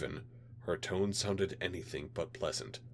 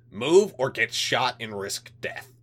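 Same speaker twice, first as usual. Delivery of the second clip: cold threatening official voice, louder; a hint of a menacing alien; 5 semitones higher, 10 dB louder than usual. Alien liaison orders.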